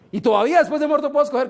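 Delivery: amused, delighted surprise; laughing question. Acted. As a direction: laugh in disbelief as you ask. Man amazed he can still choose.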